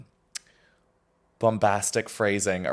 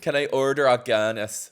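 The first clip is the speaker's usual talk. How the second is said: put-on Irish accent; 2 semitones higher than usual. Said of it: "Say something Irish".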